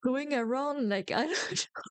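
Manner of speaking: high, pleading mock complaint; upset whining protest. Vlogger tells viewers her protest to Disney, high and pleading. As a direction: whine why over and over, half laughing.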